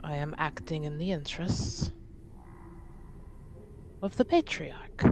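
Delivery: measured, careful official request with long pauses; lightly voiced envoy, stately and deliberate; formal envoy. Envoy making an official request for House Montbéliard, formal and careful.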